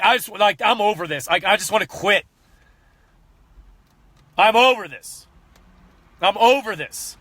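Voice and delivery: retold frustration. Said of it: "I'm saying that out of rage and frustration".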